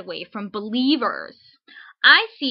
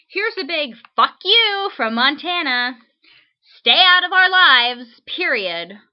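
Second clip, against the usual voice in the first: furious shout; 4 semitones higher, 8 dB louder than usual. Acted. Reads angry letter aloud.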